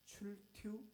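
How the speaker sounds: high, playful Chungcheong accent. Shown as a demonstration. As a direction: toss it off as a funny Chungcheong one-word question. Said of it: "이 말을 충청도 말로 하면". (높고 장난스러운 충청도 사투리)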